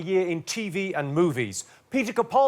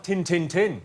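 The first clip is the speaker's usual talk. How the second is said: put-on Yorkshire accent; slower than usual. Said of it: "They say things like".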